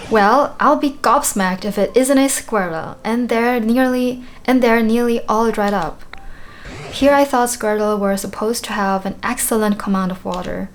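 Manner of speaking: put-on lightly British old character voice; mild British accent for a game character; British accent for Tangrowth. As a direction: read it with a hint of a British accent. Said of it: "a British accent".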